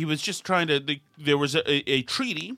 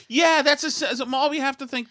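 sarcastic agreement; 10 semitones higher than usual. Pretend. Sarcastic repeat.

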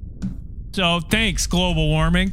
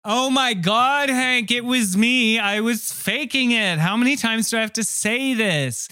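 exasperated; 5 semitones higher than usual. Acted. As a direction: stretch the words in fed-up exasperation. Wife exasperated at repeating confession.

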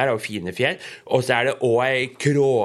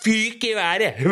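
excited; 10 semitones higher, slower than usual. A narrator's reading. Hat flies off in shock.

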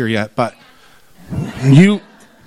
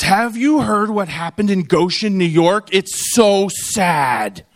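quoting a visitor; slower than usual. Retold or imitated. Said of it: "a person comes up to the booth and says".

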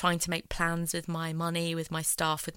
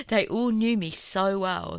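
slow, louder, laughing through near tears; holding back tears; 4 dB louder, slower than usual. Real, not acted. Telling how her family knew her, nearly crying and slowed. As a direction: push through the words fighting tears. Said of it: "I'm trying not to cry".

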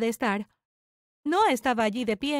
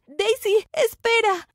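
raised, higher calling voice; llamada urgente; 8 semitones higher, 4 dB louder, much slower than usual. Acted. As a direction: call after someone to make them wait. Corre tras ella suplicando que espere. (llamada urgente en voz alta)

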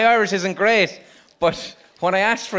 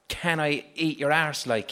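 Irish phrasing; 4 semitones lower, 4 dB quieter than usual. Shown as a demonstration. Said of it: "English the way we speak English".

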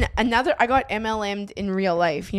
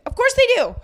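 laughing; 13 semitones higher, 3 dB louder than usual. Real, not acted. Laughing sarcasm about cops.

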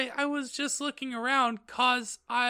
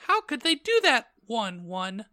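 very high, loud outraged shriek; mock angry shout; 13 semitones higher, 4 dB louder than usual. Heroine protesting the notice, shrill-high angry cry. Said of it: "I shouted angrily".

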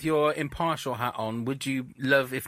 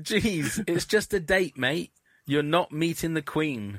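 put-on Australian accent; slower than usual. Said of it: "if you were bursting into the accent there".

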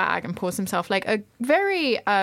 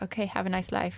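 quieter, offhand farewell; soft casual quote; 7 dB quieter than usual. Retold or imitated. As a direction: toss it off softly, no edge. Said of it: "He was like".

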